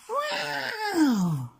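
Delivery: high, loud cat yowl; cat howl. A narrator's reading. Scarface Claw up the tree, a loud high yowl. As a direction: screech it like a trapped tomcat.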